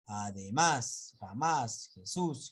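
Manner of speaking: además, jamás, Jesús, each weighted on the last syllable; stress on final syllable. Shown as a demonstration. Teacher listing words in S, final syllables stressed in además, jamás, Jesús. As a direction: lean on "más" in además, jamás and "sús" in Jesús. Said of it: "tiene que terminar en la última sílaba la mayor fuerza".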